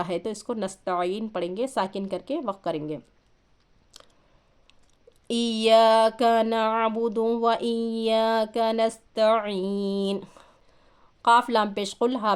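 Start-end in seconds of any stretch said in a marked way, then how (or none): 5.3-10.2 slow, drawn-out tajweed chant; Quranic recitation. Shown as a demonstration. Teacher recites slowly to the student. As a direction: recite it slowly, stretching the long vowels.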